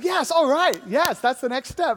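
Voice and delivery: put-on keen yes; feigned eagerness. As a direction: play at being totally on board. Feigned agreement hiding his reluctance.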